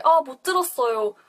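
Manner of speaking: apologetic with a sighing "아"; sorry you missed what they said, said a little sadly. Shown as a demonstration. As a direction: start each line with a regretful "아". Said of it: "bit more sad".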